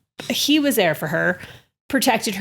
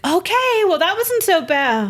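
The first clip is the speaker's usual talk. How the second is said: mom relieved; 10 semitones higher than usual. Retold or imitated. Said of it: "she's like".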